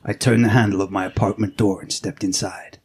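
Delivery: hard-boiled detective narration; brooding noir voiceover; film noir narration. Acted. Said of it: "that little film noir inspired intro".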